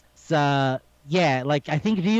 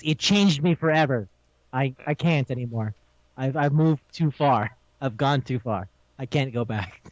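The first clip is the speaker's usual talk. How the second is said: understated, lower-pitched haunted confession; mock-traumatized veteran; 4 semitones lower than usual. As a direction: imitate a war-scarred veteran, sinking lower. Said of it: "speaks of his time ... as a person with P T S D".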